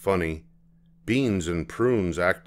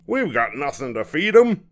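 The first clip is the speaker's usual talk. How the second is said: worried; 7 semitones higher, 5 dB louder than usual. Acted. Hooper worried.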